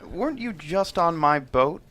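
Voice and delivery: lightly voiced Burke, smug. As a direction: play the suave villain, mildly mocking.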